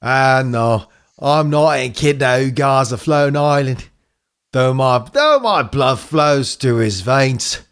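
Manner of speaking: put-on lightly accented, measured elder; old echidna mentor. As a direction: play a cryptic elder with a touch of accent. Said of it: "that's, that's the voice".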